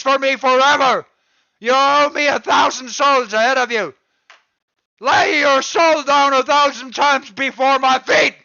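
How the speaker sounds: angry rant. Real, not acted. Continuing grievance rant.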